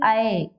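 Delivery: ऐ said as a gliding "a-e"; ai as diphthong. Shown as a demonstration. Teacher explaining the upper matra, ai as diphthong. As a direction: glide from a into e on ऐ. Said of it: "तो इसे हम क्या पढ़ेंगे".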